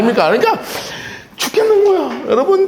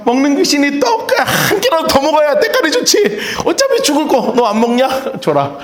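laughing glutton; 3 semitones higher than usual. Retold or imitated. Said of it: "저 같은 인간은 뭐라 그랬겠습니까?".

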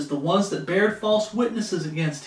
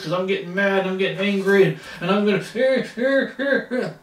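mock losing temper; 2 semitones higher, 3 dB louder than usual. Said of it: "a man that was losing his temper".

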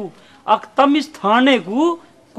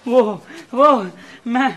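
halting, broken start; hesitant, cornered stutter; nervous stammer. Acted. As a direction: stumble for an excuse. Nervous man stammers excuse.

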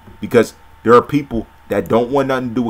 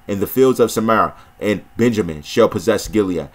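measured, solemn Bible reading; scripture reading. Acted. Preacher reading scripture to viewers, measured and solemn. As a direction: read the prophecy steadily, like from a pulpit.

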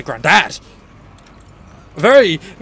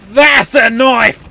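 slow, emphatic mock film quote; film-line parody punchline; slower than usual. Player capping a knife joke, emphatic film-line parody. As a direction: lean slowly and proudly on "That's a knife".

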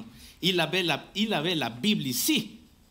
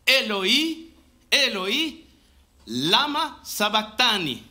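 raised-voice cry to God, drawn out at the end; 2 semitones higher, 3 dB louder, slower than usual. Acted. Jesus crying out to God on the cross, raised-voice appeal. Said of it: "Jésus s'écria d'une voix forte".

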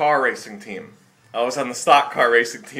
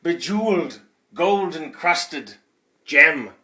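show announcer. Pretend. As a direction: savour each word like a showman. Performing show intro.

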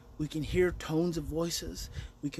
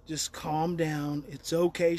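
soothing calm; 4 semitones lower, slower than usual. Retold or imitated. Soothing upset mother.

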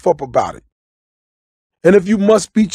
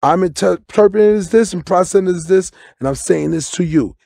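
soothing hush. Shown as a demonstration. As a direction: hush her gently mid-argument. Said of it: "grab and say".

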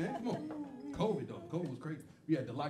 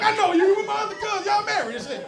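fooling voice; 13 semitones higher, 7 dB louder than usual. Pretend. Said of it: "I'm gonna fool him".

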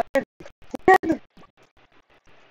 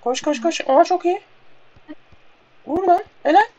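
being chased; 7 semitones higher, 5 dB louder than usual. Real, not acted. Urging a player to run and shoot.

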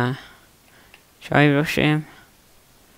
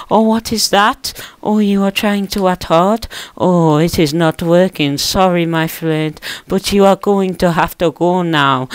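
mock Asian accent; 4 semitones higher than usual. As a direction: taunt in a hammed-up Asian accent, stretching the words. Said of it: "Why have I turned Asian?".

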